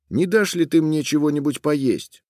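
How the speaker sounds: lightly voiced hungry boy. A narrator's reading. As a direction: ask for food. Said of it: "ответил мальчик".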